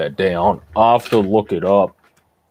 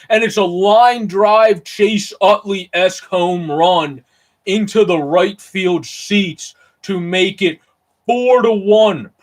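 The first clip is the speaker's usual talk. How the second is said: much higher, louder, stretched-out announcer call; excited home run call; 9 semitones higher, 4 dB louder than usual. Acted. Streamer calling a Peralta home run for viewers, in a soaring excited announcer voice. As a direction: call the homer like the ballpark just erupted.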